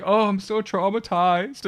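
high, drawn-out milking of sympathy; mock traumatized. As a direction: lay on the fake trauma, slow and high. Playing up shock for sympathy.

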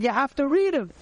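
acting out a polite but firm correction; insistent instruction. Young volunteer telling a man to read the card, insistent.

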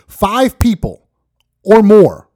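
slow, high, emphatic five people; stressed outrage. Real, not acted. Host counting careless shoppers, incredulous and loud.

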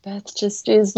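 mock-serene, unbothered midwife voice; calm and collected. Midwife answering a laboring mother, calm and collected. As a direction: say it with maddening calm. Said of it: "like, so calm and collected".

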